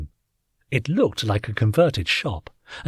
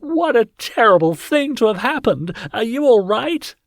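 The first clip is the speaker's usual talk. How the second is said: high alien woman voice; 12 semitones higher, 4 dB louder than usual. A narrator's reading. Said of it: "she exclaimed".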